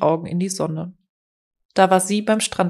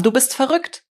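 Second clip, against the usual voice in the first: higher, heated, rising at the end; angry accusation; 6 semitones higher than usual. A narrator's reading. Man to the woman pursuing him, angry accusation. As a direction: fling the insult, pitched up to the last word. Quarrel, accusation before she returns it.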